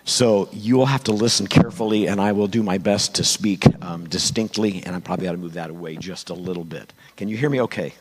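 hoarse, worn-out voice; gravelly voice. Real, not acted. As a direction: speak through a lost voice. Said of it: "I apologize for the gravelly voice".

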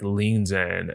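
usual speaking voice

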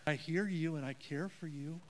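soft and sincere comfort; gentle caring line. Shown as a demonstration. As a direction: say it softly, like you truly care. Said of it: "See how that makes a difference?".

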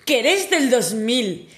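high, slow, loud shriek of disbelief. Retold or imitated. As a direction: shriek it out, stretching every word.

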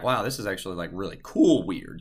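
calm wonder. Acted. Marvelling at an uncanny connection, calm wonder. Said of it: "you feel, like, a calmness about it".

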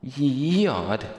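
high, loud, stretched-out mock female voice; mimicking synthesized female voice. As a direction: parrot the female synth in a swooping high shout. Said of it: "Let's try female".

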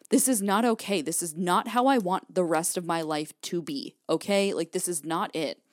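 firm, emphatic refusal; retold resolve, each phrase landing firmly; no-nonsense. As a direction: lay down the law to yourself. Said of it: "making the no-nonsense decision".

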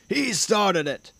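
high, drawn-out accusation; crying out. A narrator's reading. King points at the dragon and accuses, high indignant cry. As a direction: blame him in a slow, high cry. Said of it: "he cried".

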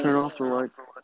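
commanding voice like a mad scientist. Acted. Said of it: "you literally sound like you're a fucking mad scientist doing that".

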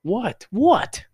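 high, mock-irritated questioning; voiced woken cat. Host voicing the cat just woken up, mock irritation. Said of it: "she yawns and she's like".

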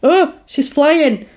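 put-on high, slow, dreamy boyish awe; awed boy. Retelling the film, voicing Chip in slow amazement. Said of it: "And then he goes".

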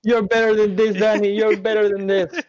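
hammed-up earnest appeal; mock earnest mother. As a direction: plead slowly like a movie mom. Quoting the mom's line.

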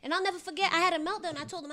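ordinary talk, nothing marked

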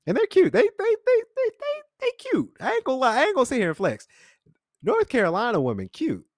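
high giddy squeak, stuttering on they; gushing about cute women. Retold or imitated. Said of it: "And I said".

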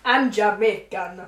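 slow put-on Jamaican accent; mock Jamaican accent. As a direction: claim it in a fake Jamaican accent. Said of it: "Oh, I sounded like an accent".

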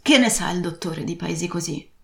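put-on a rough old sea dog pleading and grumbling; lightly voiced old buccaneer craving rum; old pirate captain. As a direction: lean into the weary, boozy old sailor.

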